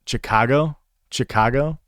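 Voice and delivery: Chicago with open "ah", tried out as a question; questioning Chicago with a rising end; California-style Chicago. Shown as a demonstration. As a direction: say Chicago as "shi-KAH-go", testing it. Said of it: "California says".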